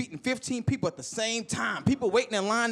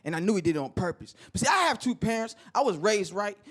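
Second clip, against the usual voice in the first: normal talking voice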